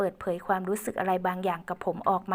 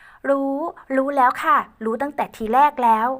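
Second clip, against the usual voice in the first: put-on higher, louder girl voice; protesting young woman; 5 semitones higher, 7 dB louder than usual. Ae protesting to Uncle Uan, higher louder girl voice. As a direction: protest playfully as Ae.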